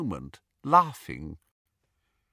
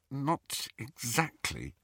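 softer, slow, reluctant reply; uncomfortable; 6 dB quieter, slower than usual. Acted. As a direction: answer hesitantly, not wanting to say. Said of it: "said Hermione uncomfortably".

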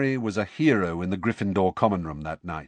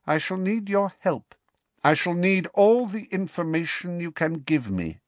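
cold dark lord; 8 semitones higher than usual. Acted. Dark lord commands servant.

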